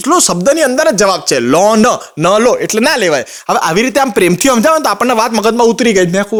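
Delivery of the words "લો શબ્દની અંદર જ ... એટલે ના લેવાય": father explaining. Retold or imitated. Father's wise explanation voiced.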